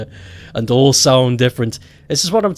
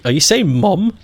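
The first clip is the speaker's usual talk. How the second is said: puzzled question; 5 semitones higher than usual. Retold or imitated. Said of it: "the first time I heard that, I was like".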